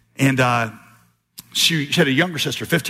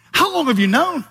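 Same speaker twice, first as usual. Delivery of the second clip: shocked sister; 10 semitones higher than usual. Retold or imitated.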